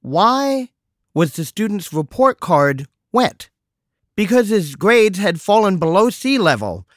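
mock phone assistant telling a joke. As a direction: set up the pun like a cheery robot. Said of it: "It said".

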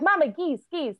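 imitating young son. Mother quotes her son spotting geese, lightly imitating his excited call. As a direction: pipe up lightly as a child calling to mum. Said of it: "he's like".

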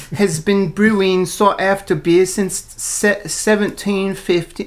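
high, slow picture-book elephant; goofy elephant. Pretend. Reading the beer label as the book's elephant, goofy. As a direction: play a goofy, bespectacled cartoon elephant. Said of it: "He's kinda goofy".

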